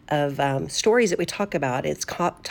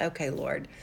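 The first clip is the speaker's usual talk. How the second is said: softly whispered, yielding; a hushed okay to God; whispered surrender; 2 semitones lower, 6 dB quieter than usual. Retold or imitated. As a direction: breathe it out in quiet surrender. Quiet surrender to the Lord.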